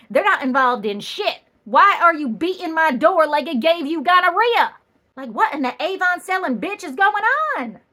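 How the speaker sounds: loud, exasperated rant at the banging cop; indignant rant. Retold or imitated. To the cop pounding the door, a loud indignant rant. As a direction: rant like the door is your family.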